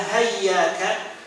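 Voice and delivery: hayyaka with an h at the start, said slowly; variant reading. Shown as a demonstration. Teacher listing variant readings, slowly. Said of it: "cara baca yang berbeda-beda".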